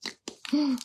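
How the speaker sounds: playful fake gasp; quick gasp of mock fright. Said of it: "Now you're freaking me out".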